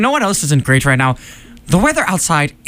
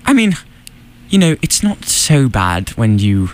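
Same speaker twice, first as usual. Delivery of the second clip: put-on British accent; 4 semitones lower than usual. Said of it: "Have we gone British?".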